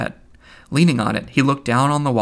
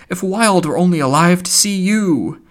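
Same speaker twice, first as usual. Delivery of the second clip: exclaiming Buck Mulligan; 7 semitones higher, 5 dB louder than usual. Acted.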